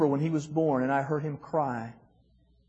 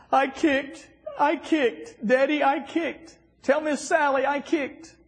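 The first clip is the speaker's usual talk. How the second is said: put-on high child voice, eager and proud; proud little boy; 12 semitones higher, slower than usual. Father quoting his son after the pool, high proud child voice. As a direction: pitch way up, a toddler boasting. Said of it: "He said this".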